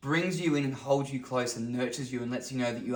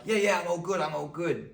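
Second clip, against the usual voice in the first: high, breezy brush-off; acted "everything's fine" character; put-on brave face; 6 semitones higher, 4 dB louder than usual. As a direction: wave away concern with false cheer. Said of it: "this archetype".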